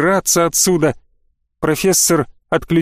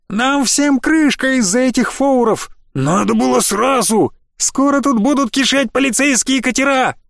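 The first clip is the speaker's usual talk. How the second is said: much higher, frantic bandit voice; panicked wailing; 8 semitones higher than usual. A narrator's reading. Bandit wails to his gang about police boats, panicked. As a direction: wail in panic as the police close in. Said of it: "нестройные вопли".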